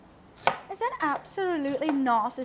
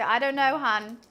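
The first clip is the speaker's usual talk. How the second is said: light, teasing reply; sassy shrug to a stranger; breezy comeback; 3 semitones lower, 3 dB louder than usual. Retold or imitated. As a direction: shrug it off sweetly. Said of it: "reply is always the same".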